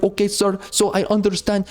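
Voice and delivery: a faint Indian call-center agent voice; mock Indian accent. Caller mocking the Indian agent with a faint Indian accent. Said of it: "dudes from India".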